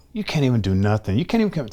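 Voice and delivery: retold self-scolding, pitch jumping up; self-berating inner voice. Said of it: "I'm just beating myself up more".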